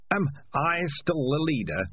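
put-on high, weak old rat; frail old rat. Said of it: "he said".

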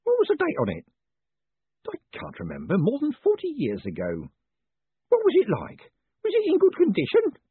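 put-on very high old man pressing for answers; insistent Groat. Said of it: "Groat insisted".

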